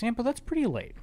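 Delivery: high-pitched insistent worry, imitated; paranoid husband. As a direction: mimic a husband who won't let it go. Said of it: "him just being paranoid".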